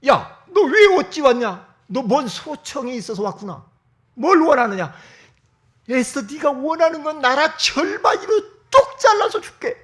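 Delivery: loud, high, laughing king; a smitten king booming his promise; doting king. Acted. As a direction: bellow a lavish offer with a laugh. King offers half his kingdom.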